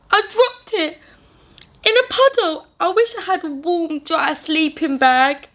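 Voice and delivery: a crying fox telling the giant about his bag, high and sad. Acted. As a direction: speak as a tearful little fox. Fox tells his trouble.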